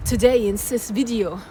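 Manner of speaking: hammed-up French accent, halting delivery; put-on French accent. Multi-talented vlogger showing off to viewers, mock French accent. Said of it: "I could do a French accent".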